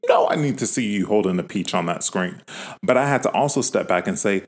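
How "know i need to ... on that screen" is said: mock outrage. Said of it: "I was sitting here mad at you".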